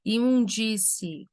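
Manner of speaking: slow "Imundície", separating the ending; final syllables separated. Shown as a demonstration. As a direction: draw out the end of "Imundície". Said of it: "fazendo separação só do final". ("Imundície" devagar, separando o final)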